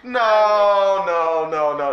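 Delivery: loud stunned no, no, no; disbelieving protest; shocked denial. Real, not acted. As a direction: refuse to believe the news. Disbelief at soap twist.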